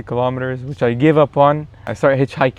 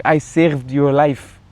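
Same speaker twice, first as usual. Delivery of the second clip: put-on French accent; slower than usual. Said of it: "she said it again".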